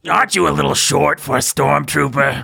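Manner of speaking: lightly voiced princess; a hint of a cartoon princess; Princess Leia voice. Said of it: "your Princess Leia voice".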